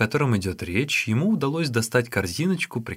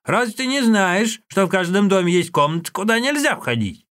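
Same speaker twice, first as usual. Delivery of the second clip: scolding; 9 semitones higher, 4 dB louder than usual. Acted. Old woman scolds boy.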